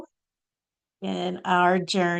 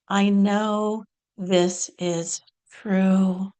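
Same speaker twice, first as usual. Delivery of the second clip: deliberate, drawn-out prayer; spoken example of a demanding prayer; slower than usual. Shown as a demonstration. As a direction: pray with slow conviction, stretching key words. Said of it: "set a little example here of a prayer demand".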